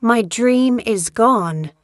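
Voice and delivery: "My dream is gone" drawn out slowly, word by word; a slow, weighted reading; slow and deliberate. Shown as a demonstration. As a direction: let each word land, unhurried. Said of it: "Next phrase".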